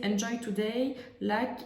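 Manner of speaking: put-on slow, careful English with a strong French accent. Crafter reading an English quote off her paper, in slow French-accented English. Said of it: "Vous excuserez mon accent pourri".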